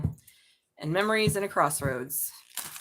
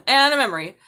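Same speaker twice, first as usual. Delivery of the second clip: laughing; 7 semitones higher, 11 dB louder than usual. Real, not acted. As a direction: repeat it higher and louder through a laugh. Repeat with laugh, louder.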